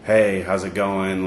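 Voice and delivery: routine, automatic hello; knee-jerk greeting. Retold or imitated. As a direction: toss it out slowly as a mere habit, imitated. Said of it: "just the normal knee-jerk greeting".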